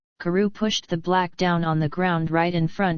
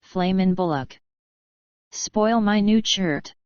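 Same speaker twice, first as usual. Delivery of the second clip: indignant. A narrator's reading. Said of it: "saying in an indignant tone".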